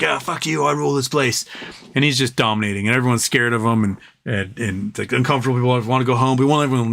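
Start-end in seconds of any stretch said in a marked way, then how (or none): 0.0-1.4 cocky tavern thug voice; the A road cursing at the other roads in the pub, cocky bully voice; drunk bully A road. Retold or imitated. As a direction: sneer it like a bar bully mouthing off. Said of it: "you're like".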